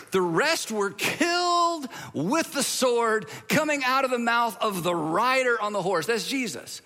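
slow, emphatic Bible reading; dramatic scripture reading. Acted. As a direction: draw out the gory verse for effect.

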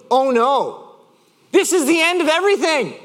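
high, overblown despair; mock panic. Driver retelling his reaction to a scratched bumper, mock panic. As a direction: dramatize a tiny disaster. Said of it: "My initial reaction was".

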